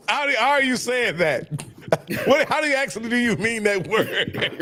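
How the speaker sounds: laughing through the question; amused disbelief. Real, not acted. Amused at being called wisecrackers.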